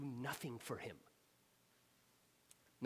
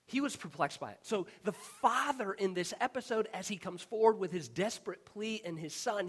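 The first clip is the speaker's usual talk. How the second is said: louder and higher as the point builds; building preaching; 5 semitones higher, 7 dB louder than usual. Real, not acted. Preacher building to the climax for the congregation, loud. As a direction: preach it with rising force.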